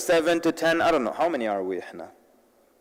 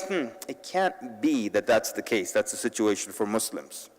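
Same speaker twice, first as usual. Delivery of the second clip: slow, lower, softer thinking aloud; musing to oneself; 5 semitones lower, 5 dB quieter than usual. Retold or imitated. Voicing persuaded listeners as they start to realize, musing. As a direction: imitate a listener slowly realizing. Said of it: "they start to realize".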